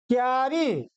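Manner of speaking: क्यारी with joined kyaa, two syllables; correct pronunciation. Shown as a demonstration. Teacher gives pupils the correct word, क्यारी said as kyaa-ri. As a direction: run k straight into yaa in क्यारी. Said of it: "इसका शुद्ध क्या है".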